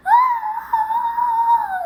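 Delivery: a high, loud gamer shriek; high shriek copying a scared teen gamer; imitated scream. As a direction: mimic her brother screaming at a jump scare.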